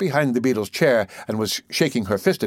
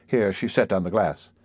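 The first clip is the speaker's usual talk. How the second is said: plain reading voice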